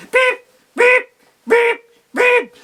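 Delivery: very high, loud startled peeps; squawking chicks. Acted. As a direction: cry out as if knocked over. Chicks knocked over.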